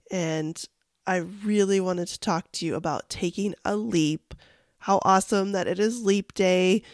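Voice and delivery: deep, gravelly voice; hoarse gravelly throat. Real, not acted. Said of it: "deep, gravelly voice today".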